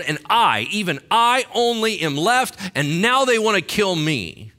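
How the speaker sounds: high, loud, self-pitying protest; whiny Elijah complaint. Acted. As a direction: whine it like a martyred prophet. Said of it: "Is that true?".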